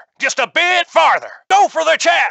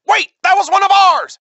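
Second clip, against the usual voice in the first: raised, urgent cry of alarm; alarmed protest; 4 semitones higher than usual. Acted. Pilot warning a wingmate about friendly fire, alarmed. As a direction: call out a higher-pitched warning.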